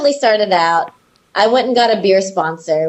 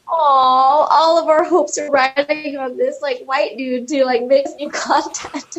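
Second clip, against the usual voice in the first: mock pleading; 5 semitones higher, slower than usual. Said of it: "they're just like".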